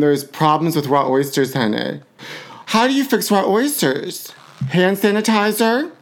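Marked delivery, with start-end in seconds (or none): 2.7-5.9 higher, slower incredulous questions; mock bafflement. Host mocks the oyster warning with higher, slower disbelief. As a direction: toss out each remedy in higher, rising disbelief.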